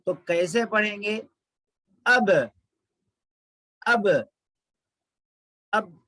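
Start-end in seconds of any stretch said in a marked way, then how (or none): 2.0-6.0 "अब" with lips held shut, no release; wrong stopped ab. Shown as a demonstration. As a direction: stop dead on the b of "अब". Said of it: "रुक जाएंगे नहीं, ऐसा होंठ बंद नहीं करेंगे".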